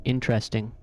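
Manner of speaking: "interesting" with a clear EH in the middle; old pronunciation. Shown as a demonstration. Showing own old way, "interesting" as IN-tress-ting. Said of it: "I used to pronounce it".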